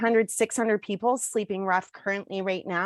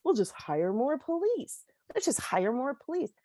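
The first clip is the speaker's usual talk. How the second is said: mocking the police crowd; 5 semitones higher than usual. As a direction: parody the people who just want more cops. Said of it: "But people are like".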